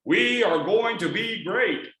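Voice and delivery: mock a stiff speaker's stock promise; stiff symmetrical speaker. Shown as a demonstration. Trainer mocking a stiff speaker, slow and wooden. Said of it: "As opposed to".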